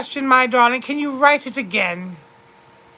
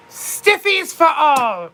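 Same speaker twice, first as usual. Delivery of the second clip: cheeky slow tease; 3 semitones higher, slower than usual. Pretend. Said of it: "I thought you said stiffies for all".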